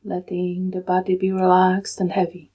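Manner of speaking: calm, unhurried meditation guide with long pauses; soothing, even delivery in short, spaced-out phrases; guided meditation. Real, not acted. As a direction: guide them gently into stillness, leaving long silences.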